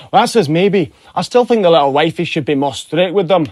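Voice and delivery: broad Scottish husband; thick Scottish accent. Acted. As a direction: answer back as a Scotsman. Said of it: "in a thick Scottish accent".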